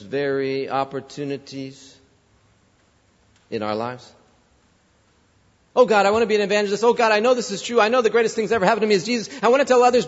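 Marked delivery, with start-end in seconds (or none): 5.8-10.1 rattled off fast, glib prayer; mock earnest prayer. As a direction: gush out empty promises to God, fast. Mocking our hollow prayers.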